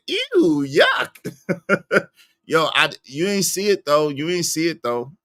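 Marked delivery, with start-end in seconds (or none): 0.1-2.1 high-pitched quoted "ew"; mock disgust. Streamer mimicking a commenter's reaction, in high mock disgust. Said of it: "you said".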